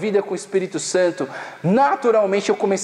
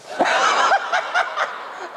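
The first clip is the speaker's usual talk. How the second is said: airy burst of laughter, much higher; high breathy laugh. Real, not acted. Remembering the kids demanding a joke, high airy laugh. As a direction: laugh at the memory.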